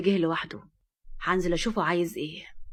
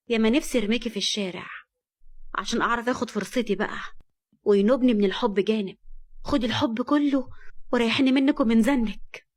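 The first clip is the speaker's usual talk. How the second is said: spiteful; 2 semitones higher than usual. Acted. Amira resents Nour, bitter and spiteful. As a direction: vent your jealousy at her.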